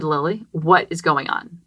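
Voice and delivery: put-on slow, gentle question to a child; much nicer. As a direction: ask it kindly and patiently. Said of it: "I said it much nicer".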